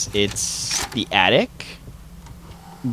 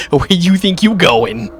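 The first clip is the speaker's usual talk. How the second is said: menacing guard; 8 semitones higher, 7 dB louder, slower than usual. Retold or imitated.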